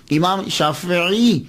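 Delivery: "شافعی" drawn out slowly as shaa-fi-'ee; i after the f, then a distinct ain in "شافعی"; careful correct pronunciation. Shown as a demonstration. Lecturer showing Punjabis what is difficult, "شافعی" slowly with zer on fa and ain. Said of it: "فا کے نیچے زیر اور عین کے نیچے زیر".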